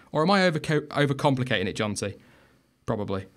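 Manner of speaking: nose stuffed with tissue; tissue up one nostril. Real, not acted. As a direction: talk with a blocked nostril. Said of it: "I've got tissue stuffed up there".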